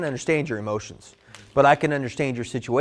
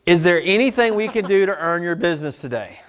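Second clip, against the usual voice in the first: mock manager line; 2 semitones higher than usual. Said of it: "when a manager does this".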